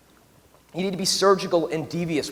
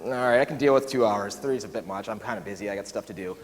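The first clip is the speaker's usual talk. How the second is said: reluctant grumbling; 6 semitones lower, 3 dB quieter than usual. Retold or imitated. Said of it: "I'm like".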